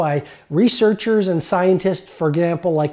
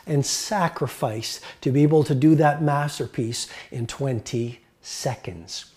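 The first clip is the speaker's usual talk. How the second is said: a painter patiently explaining his years of practice; calm wise reply; 3 semitones lower, 4 dB quieter than usual. Retold or imitated. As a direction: gently set her straight. Picasso's wise answer to woman.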